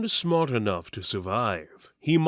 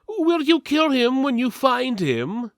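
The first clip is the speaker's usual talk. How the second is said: companion voice; 11 semitones higher, 3 dB louder than usual. Acted. Companion asks Julius, other voice.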